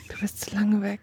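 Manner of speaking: hushed teasing; whispering. Real, not acted. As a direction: whisper it playfully.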